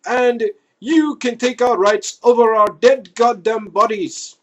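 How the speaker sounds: loud, defiant Scotsmen shouting. Retold or imitated. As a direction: shout it back like angry fishermen. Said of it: "Scotsmen everywhere say".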